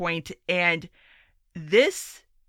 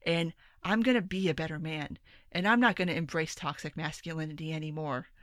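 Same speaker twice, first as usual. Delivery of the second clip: hushed, softer, mock-sincere convert; sarcastic mock epiphany; 4 dB quieter than usual. Podcaster mocking men's imagined reaction to the Gillette ad, soft sarcastic sincerity. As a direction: sarcastically play a man gratefully reformed by the ad. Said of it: "was like".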